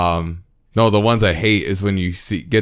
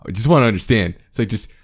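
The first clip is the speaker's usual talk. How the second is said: higher and louder, exasperated; venting frustration to a friend, raised voice; worked-up frustration; 4 semitones higher, 4 dB louder than usual. Real, not acted. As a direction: push it up as frustration builds. Frustrated about not understanding things.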